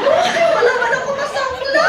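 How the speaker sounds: high, laughing exclamation; amused despair; laughing dismay. Real, not acted. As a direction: laugh at having nothing to pawn.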